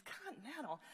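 mildly scornful query; disdainful echo. Acted. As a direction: repeat it back as if it's a terrible choice. Hairdresser scornfully echoes the airline.

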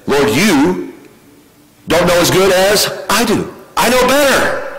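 rising to a high, smug I know better; preacher mocking a complaining believer; mock arrogant complainer. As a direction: imitate a know-it-all talking back to God.

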